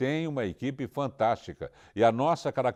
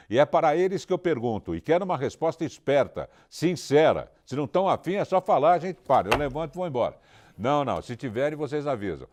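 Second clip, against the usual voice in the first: loud challenge; 3 semitones higher, 3 dB louder than usual. Real, not acted. Host loudly challenges crew for answer.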